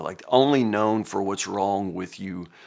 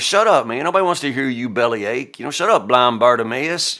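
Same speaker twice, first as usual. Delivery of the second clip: crowd shouting him down; 4 dB louder than usual. Retold or imitated. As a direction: shove the blind beggar aside with your voice. Crowd telling Bartimaeus to shut up.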